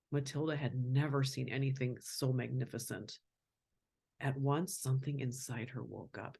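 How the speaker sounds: put-on reading a picture book to a child; gentle storybook telling; story narration. A narrator's reading. Parent reading Matilda's story aloud, storybook voice.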